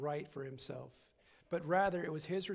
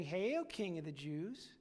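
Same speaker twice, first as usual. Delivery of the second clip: mocking hail; slower than usual. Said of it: "mock him and saying".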